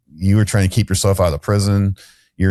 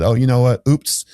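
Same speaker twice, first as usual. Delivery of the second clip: mock oops; 5 semitones higher than usual. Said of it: "And then they said".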